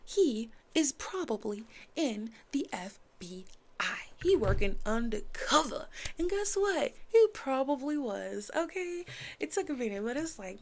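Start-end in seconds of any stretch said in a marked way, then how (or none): 0.0-5.9 whispered, conspiratorial; imitating mom's whisper. Mom's early guess about Alex, whispered. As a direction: whisper it like a secret theory. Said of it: "My mom said from the jump".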